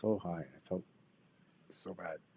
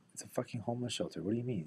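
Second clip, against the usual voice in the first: exasperated retort; 6 semitones higher than usual. Retold or imitated. His retold exasperated reply.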